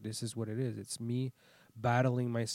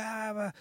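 imitated screaming; 10 semitones higher than usual. Retelling road rage, mock screaming. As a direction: imitate someone screaming at the car window. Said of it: "start screaming".

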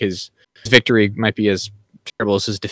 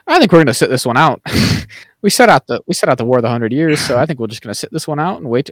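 mock Ogier voice; 3 semitones higher, 4 dB louder than usual. Voicing stubborn Ogier elders.

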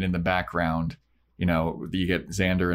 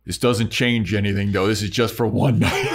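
mock dramatic declaration; 3 semitones higher, 5 dB louder than usual. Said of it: "Angel goes".

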